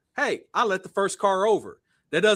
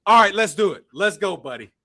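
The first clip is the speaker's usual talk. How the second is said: mock challenge; 4 dB louder than usual. Retold challenge to fight.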